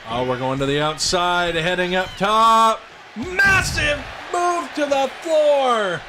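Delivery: building up to a big shout; hype commentary call. Acted. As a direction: sell the big dive to the crowd.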